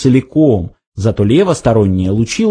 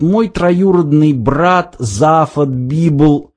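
slow, weighty stress through "мой троюродный брат"; insistent, pressing; 3 semitones higher, much slower than usual. A narrator's reading. Ford introduces his cousin, pressing every word. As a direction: lean on each word of "брат Зафот Библ". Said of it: "с нажимом продолжал Форд".

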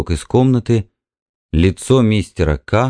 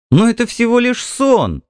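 bright, much higher cheerful cry; merry exclaim; 13 semitones higher than usual. A narrator's reading. Wife laughing off her jealous husband, merry high exclaim. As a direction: toss it off gaily, amused at him. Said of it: "Ей стало весело".

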